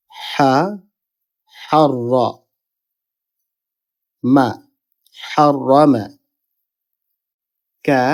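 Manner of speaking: হাররা with a held, rolled double r, pauses between steps; syllable drill. Shown as a demonstration. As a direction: build হা, হাররা, মা, then হাররামা joined. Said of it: "প্রথম হরফের সাথে এটা মিলিত হবে". (হা, হাররা, মা: ভেঙে ভেঙে উচ্চারণ)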